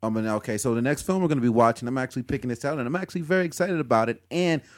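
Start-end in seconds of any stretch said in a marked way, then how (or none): 4.3-4.6 radio voice. Pretend. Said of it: "He's got his radio voice on".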